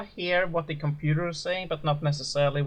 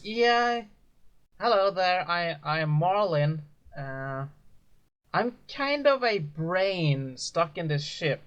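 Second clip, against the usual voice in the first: a hint of a shy ship AI introducing herself; clearer woman voice; slower than usual. Ship AI Marlin greeting the prisoners, lightly voiced woman. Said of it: "speaks in a more clearer woman voice".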